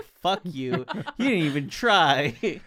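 mock annoyed. Mock angry at barista.

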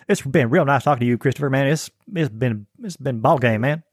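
a lightly voiced, folksy Southern accent; a hint of a good old boy from the South; broad Southern accent. Shown as a demonstration. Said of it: "some of them are more refined than, than others".

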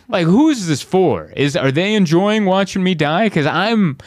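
high, comically despairing complaint; desperate protest. Retold or imitated. Comedian to production manager after bombing, desperate protest.

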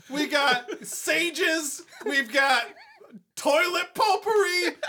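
shouted hard-sell commercial pitch. Acted. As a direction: hype it like a cheesy radio ad. Parody radio ad for potpourri.

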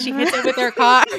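laughing disbelief. Retold or imitated. Sister recalls reading the car crash, laughing in disbelief. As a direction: tell it while laughing in disbelief. Recalling shock at plot twist.

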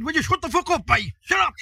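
high-pitched, rising imitation of an angry man; retold angry outburst. Serious Cork actor snapping at him.

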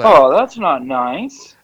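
slow, drawn-out reproach; tut-tut like a teacher; mock scolding.

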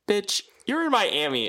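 high, loud disbelief; incredulous friend. Retold or imitated. Friend announcing she is in Miami, high and loud. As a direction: tell her where she really is, up high. Friend tracking her location.

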